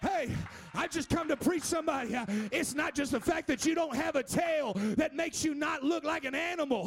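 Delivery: rising preacher's cadence, half shouted; preaching. Acted. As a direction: build the sermon back up to fervour. Preaching builds again.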